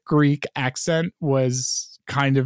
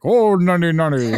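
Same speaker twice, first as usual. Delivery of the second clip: silly god voice; 4 semitones higher, 4 dB louder than usual. Retold or imitated. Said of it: "the Kraglin god who says".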